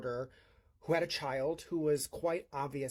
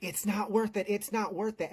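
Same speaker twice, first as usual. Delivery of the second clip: higher, urgent retold plea; urgent pleading; 5 semitones higher, 3 dB louder than usual. Retelling how she held back the mom, urgently pleading. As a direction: press it on them twice, raised pitch. Holding the angry mother back.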